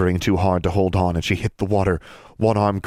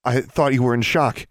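higher, lightly voiced boy; boy's voice; 6 semitones higher than usual. Brian, startled after the slap, in a higher voice.

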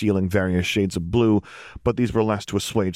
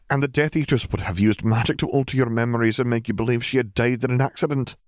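higher-pitched formal witch; McGonagall, grave warning; 7 semitones higher than usual. A narrator's reading. Witch warning family about abductions, grave. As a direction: spell out the danger in a raised, measured voice.

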